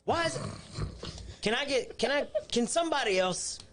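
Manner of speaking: high-pitched mock indignation; escalating comedy rant. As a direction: play up the outrage, pleading. Mock outrage over ketchup eggs.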